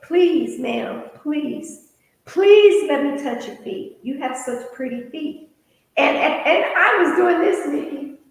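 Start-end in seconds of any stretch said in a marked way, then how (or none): 0.0-5.5 mock begging. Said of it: "He started begging".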